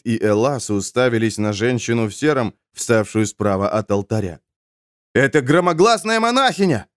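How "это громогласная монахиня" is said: high, raised cry. A narrator's reading. Someone in the crowd announces the nun, crying out. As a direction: call out the news to everyone. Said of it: "крикнул кто-то".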